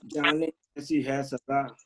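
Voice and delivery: measured couplets with pauses; ghazal recitation. Acted. Poet sharing an old ghazal with friends, measured recitation. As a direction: recite the verse deliberately, half-line by half-line.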